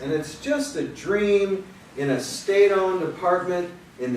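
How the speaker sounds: measured, rhythmic poetry reading; poem reading. Acted. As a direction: give each line its weight. Reads the Gagarin poem.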